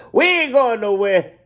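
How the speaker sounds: high, defiant comic bark; Bernie Mac. Retold or imitated. To the Chicago crowd, defiant Bernie Mac impression. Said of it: "doing my Bernie Mac".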